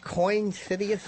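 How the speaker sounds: "City" and "yourself" lisped with TH for S; mock lisp. Host trying out her lisped line, mock lisp. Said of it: "singing with the lisp like Cindy Brady".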